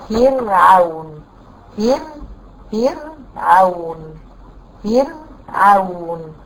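فرعون held very slowly with a thin, light ra; drawn-out demonstration. Shown as a demonstration. Teacher stretching فرعون to show the thin ra. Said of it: "قبلها مكسور اللي هي ترقق".

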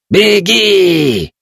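high, loud yell. A narrator's reading. Old Kaeta yells at the boy to run, loud yell. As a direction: scream at him to run. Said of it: "заорал Каэта".

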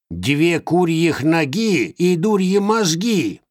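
high, slow whiny crone; grumbling hag; complaining old witch. Acted. (жалующаяся ведьма)

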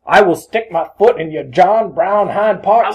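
loud, high movie-star threat; Denzel impression. Quoting Denzel movie line.

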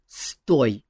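interrupting. A narrator's reading. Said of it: "перебил его Жак".

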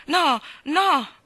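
passionate denial. A narrator's reading. Anna tells Gilbert there is no one else, passionate loud denial. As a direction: deny it fiercely and fast. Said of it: "negò appassionatamente Anna".

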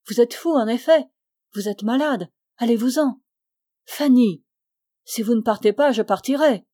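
lightly acted stern warning; firm dismissal. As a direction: send him away firmly. Fanny firmly orders Augustin out.

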